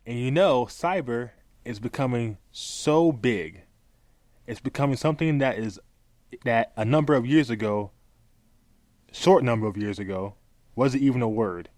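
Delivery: slow, halting reading of a statement; deliberate pauses between phrases; slow read-aloud. Shown as a demonstration. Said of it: "I'm gonna read this very slowly".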